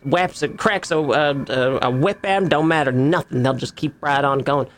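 drawling country NPC, lightly voiced; easygoing old farmer talk; rustic farmhand voice.

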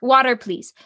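"Water, please" said politely, as the better version; polite request. Retold or imitated. Child correcting a rude demand, politely asking. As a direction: ask for "Water, please" like a well-mannered kid. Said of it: "how do we say that in a full sentence".

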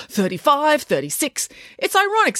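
counting with mild exertion; talking between sit-ups. A narrator's reading. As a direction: count reps while chatting. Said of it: "said April between sit-ups".

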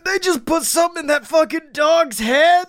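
high-pitched mock shouted disbelief; stunned outburst. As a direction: blurt it out in hammed-up, high-pitched shock. Imagined drunk shock at a ride.

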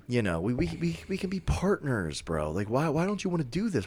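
high, whiny coaxing, fast at the end; wheedling Dracula. Retold or imitated. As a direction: beg him to be your friend. Dracula persuading, voiced high.

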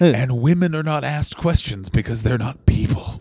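gravelly voice-over impression; deep, gravelly pronouncement; Freddie Blassie. Host imitating a wrestling voice-over man, deep and gravelly. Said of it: "gravelly voice where".

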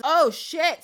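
a touch of rising panic; mild alarm. Acted. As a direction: curse in mock alarm. Heroine finds herself trapped.

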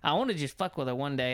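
ordinary talk, nothing marked

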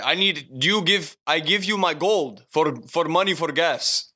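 put-on lightly accented broken English, slowing at the end; imitated foreign accent. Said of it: "That's not a good accent".

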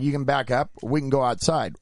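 mildly heated, confrontational retort. Retold or imitated. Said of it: "that's when voices were raised".

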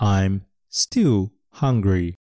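I'm still hungry very slowly, still stressed; slow repeat-after-me. Shown as a demonstration. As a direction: model it slowly for the class. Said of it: "このセンテンスも一緒に言ってみましょう". (ゆっくり一緒に言うお手本)

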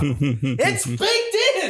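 high, drawn-out goofy holler; hammed-up yell. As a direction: draw it out high, playing up the gag. Hyped-up mock sales pitch yelling.

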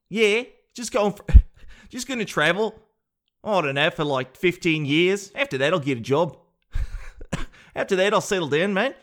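lightly put-on Australian traveller accent. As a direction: slip lightly into a mock Australian backpacker. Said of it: "Australians are known to have".

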